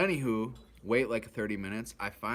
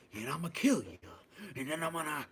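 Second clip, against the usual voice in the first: a light impression of a crazy man's threat, pitched higher; imitating crazy man; 8 semitones higher than usual. A crazy man on the bus threatens to kill everyone, lightly voiced. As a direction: toss off a half-hearted crazy threat. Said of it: "and he was crazy".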